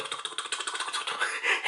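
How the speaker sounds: imitated boot sputter. Imitates boots propelling someone.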